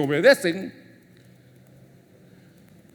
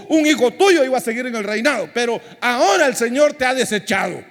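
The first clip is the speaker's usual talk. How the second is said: raised, preaching rebuke; preached rebuke; 6 semitones higher than usual. Acted. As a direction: proclaim Saul's rejection with force. Samuel rebukes Saul.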